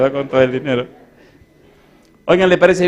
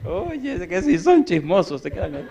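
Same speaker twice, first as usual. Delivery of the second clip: laughing; 5 semitones higher than usual. Real, not acted. Preacher laughing at nosy people.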